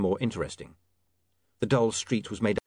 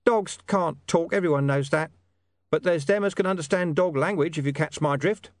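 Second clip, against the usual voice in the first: growled line, though pitched high; growling Deep Bone; 6 semitones higher, 3 dB louder than usual. Acted. Hidden informant correcting William about talking dogs, a high mild growl. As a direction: snap back at him, louder than narration. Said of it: "Deep Bone growled".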